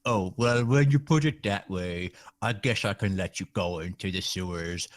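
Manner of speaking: lopsided funny NPC voice; side of mouth. Acted. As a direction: talk out of one side of the mouth. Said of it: "talking out of the side of my mouth with a funny voice".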